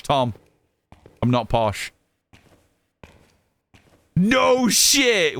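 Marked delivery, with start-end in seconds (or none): 4.2-5.4 surprised exclamation. Real, not acted. Surprised reaction to chat.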